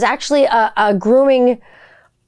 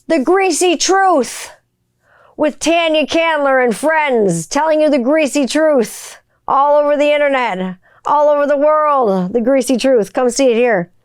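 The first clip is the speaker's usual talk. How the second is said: show promo announcer; 4 semitones higher than usual. Acted.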